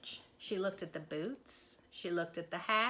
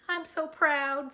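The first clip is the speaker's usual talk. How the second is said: slow, louder, higher; proud Minnie; 7 semitones higher, 7 dB louder, slower than usual. Acted. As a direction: swell with pride. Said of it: "said Minnie".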